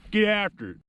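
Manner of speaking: high-pitched hollered catchphrase; rallying catchphrase shout. Real, not acted. Catchphrase called out to viewers.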